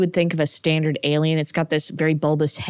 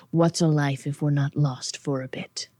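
musing demon; 3 semitones lower, 3 dB quieter than usual. Acted. Demon replies to the prince.

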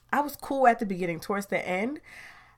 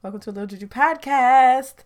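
louder, higher energetic welcome; upbeat retake; 5 semitones higher, 9 dB louder than usual. Shown as a demonstration. Host redoing the show intro, energetic and loud. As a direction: restart the intro with pep. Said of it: "let's try this again".

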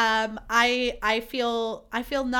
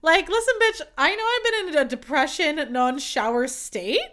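mock offended; 3 semitones higher, 4 dB louder than usual. Mock-offended rant at TikToker.

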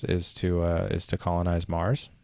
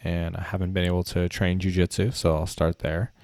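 stuffy nose from a cold; nasal voice. Real, not acted. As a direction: talk through a blocked nose. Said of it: "my voice sounds a little bit nasally".

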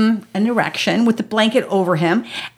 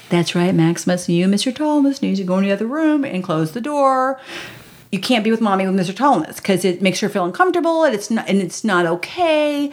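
lightly voiced big brother playing dad; a hint of stern older-brother authority; surrogate dad; 4 semitones lower than usual. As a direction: lay down the rules like a little dad. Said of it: "kinda slash dad".

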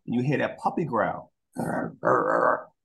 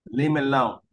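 dog voice; 4 semitones higher than usual. Retold or imitated. Voicing the dog.

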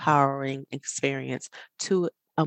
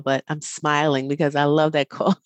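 smiling voice. Real, not acted. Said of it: "hear the smile in my voice".

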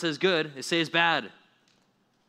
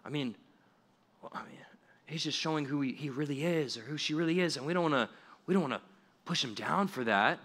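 mocking school staff. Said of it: "these public schools".

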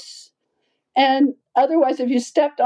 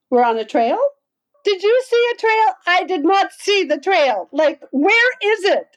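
mild mock disbelief; 7 semitones higher than usual. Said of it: "we went".

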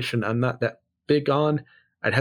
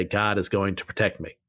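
"God is going to protect me" lower and softer, a mock of the snake handler; mocking quote; 4 semitones lower, 3 dB quieter than usual. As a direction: undercut the boast with a low, dry parody. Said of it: "pick up a rattlesnake and say".

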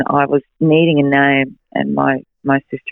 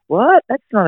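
retold surprise; 9 semitones higher than usual. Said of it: "And I was like".

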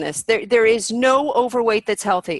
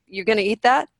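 mock sarcasm. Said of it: "I'm like".

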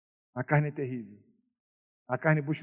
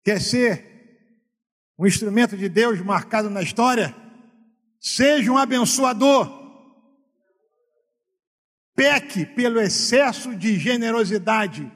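loud, raised preaching voice; fervent preaching; 5 semitones higher, 8 dB louder than usual. Acted. Pastor exhorting the church to generosity, loud fervent preaching. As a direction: preach it out, full conviction.

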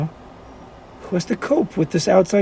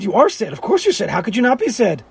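mock sympathy; 5 semitones higher than usual. Mocking the sad logic.

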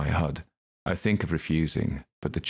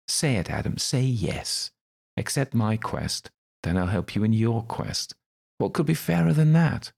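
high, wheedling, rising louder at the end; Crowley coaxing; 7 semitones higher, 3 dB louder than usual. Acted. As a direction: tempt him into saying yes.

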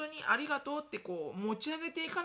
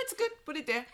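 dismissive brush-off; 4 semitones higher, 4 dB louder than usual. Retold or imitated. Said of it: "置いといてみたいなね".

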